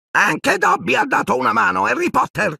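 very high, squeaky house-elf voice; eager little elf squeaking proudly. A narrator's reading. Dobby squeaking eagerly at Harry, very high voice. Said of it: "squittì".

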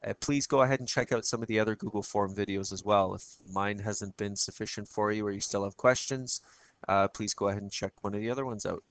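hoarse, croaky voice; frog voice. Real, not acted. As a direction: talk through a frog in the throat. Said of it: "my apologies for my frog voice".

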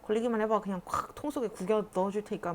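lightly acted irritated man; mild retold annoyance. Man scolding children over a dumped animal, mildly annoyed. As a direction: imitate someone grumbling in annoyance. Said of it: "그 사람이 막 짜증을 내면서".

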